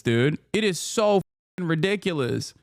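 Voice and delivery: ordinary talk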